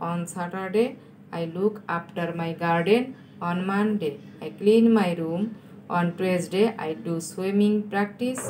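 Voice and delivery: very slow, phrase by phrase; slow dictation. Real, not acted. Teacher slowing down to help students write, slow dictation. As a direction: spell out each sentence slowly for pupils copying it. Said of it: "আস্তে আস্তে বলছি".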